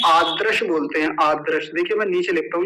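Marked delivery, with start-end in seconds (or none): 0.0-0.6 आदृश with unaspirated द, little breath; mispronunciation demo. Shown as a demonstration. Teacher showing students a common mistake, आदृश with plain unaspirated d. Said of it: "कुछ लोग इसका गलत उच्चारण करते हैं". 1.2-1.7 आदृश with unaspirated द, little breath; mispronunciation demo. Shown as a demonstration. Teacher showing students a common mistake, आदृश with plain unaspirated d. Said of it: "ये गलत बोलते हैं ऐसे".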